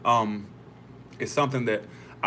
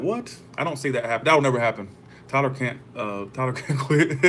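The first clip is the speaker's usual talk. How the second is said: incredulous disbelief; 3 semitones higher, 3 dB louder than usual. Retold or imitated. Vlogger retells reacting to psychic's quitting prediction, incredulous. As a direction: scoff at the prediction, half laughing.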